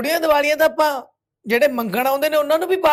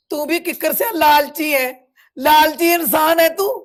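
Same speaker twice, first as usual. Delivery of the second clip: raised, higher-pitched denunciation; angry accusation; 4 semitones higher, 4 dB louder than usual. Acted. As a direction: throw the accusation straight at him. Accuses him of greed to his face. (ਗੁੱਸੇ ਭਰਿਆ ਇਲਜ਼ਾਮ)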